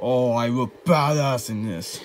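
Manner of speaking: gasp, then slow self-admiring awe; fanboying. Acted. Bowser admiring himself in the trailer, fanboying. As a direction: savour seeing yourself on screen. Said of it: "Stop fanboying, Bowser".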